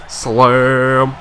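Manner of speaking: shouted slam, rising to high falsetto whoop; excited dunk call. Real, not acted. Gamer reacting to a big slam, excited high whoop. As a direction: hype up the dunk with a squealed cheer.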